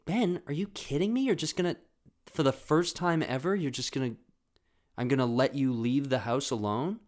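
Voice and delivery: exasperated mom impression; incredulous mom. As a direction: question the kid in mock disbelief. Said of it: "she was literally talking to us like that".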